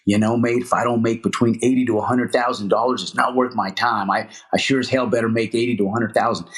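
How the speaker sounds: lightly imitated Australian builder; Australian accent. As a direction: quote him with a hint of an Aussie accent. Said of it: "heavy, um, Australian accent".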